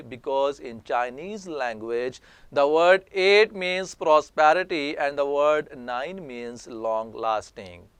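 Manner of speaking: slow, deliberate dictation reading; careful classroom reading voice; slow read-aloud. Shown as a demonstration. Teacher reads example text aloud.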